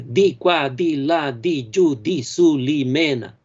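tossed rhythm, each di marked; verso recitado. Shown as a demonstration. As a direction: recite the line beat by beat. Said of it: "Então". ("Di qua, di là, di giù, di su" com cada sílaba tônica marcada)

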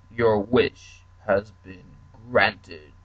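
very slow, grand genie pronouncement; a lightly voiced genie granting the wish; slow booming genie. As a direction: proclaim it like a magic genie, drawn out.

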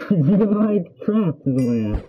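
muffled, slow mask voice; through a gas mask. Real, not acted. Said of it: "the next two words are incomprehensible".

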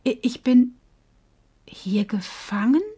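stammered, fading to a whisper; shocked, barely daring to ask; disbelieving. Acted. The fish realises he is trapped, whispering in disbelief. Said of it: "sagte er ungläubig".

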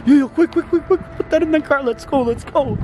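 high, rushed urgent calls; excited hurry. Real, not acted. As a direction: hurry them along in a panic. Hurrying friend to the car.

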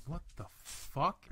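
imitating Sean. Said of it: "the way he says it is so fucking funny".

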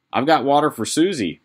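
light, sweet Mary voice; sweet young girl. Acted. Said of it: "Mary said".

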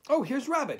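high, loud glad greeting. A narrator's reading. Eeyore greets Rabbit, high and glad. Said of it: "he said gladly".

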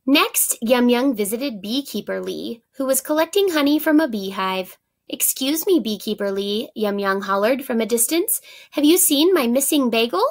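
put-on lively read-aloud for young pupils; story narration. A narrator's reading. Teacher reading a story to her class, animated storytelling. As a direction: read the picture book expressively to the class.

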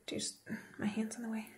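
soft unvoiced whisper. Real, not acted. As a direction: whisper it close to the mic. Whispers while at the mirror.

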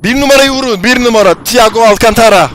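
loud, high target calls; shouting. Real, not acted. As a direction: yell it across the team. Calling targets in firefight.

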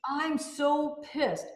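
drawn-out imitation of being fed up; mock pissed off. Woman voicing what angry people say, mock pissed off.

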